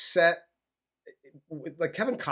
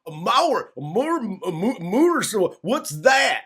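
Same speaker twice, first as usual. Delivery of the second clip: higher, louder hammed-up confused hick; mock dumb redneck; 6 semitones higher, 5 dB louder than usual. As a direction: ham up a local who can't grasp the word. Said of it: "And he's like".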